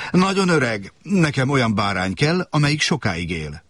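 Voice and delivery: put-on light childish voice, insistent; little prince. A narrator's reading. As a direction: play a small boy asking earnestly. Prince rejects drawing.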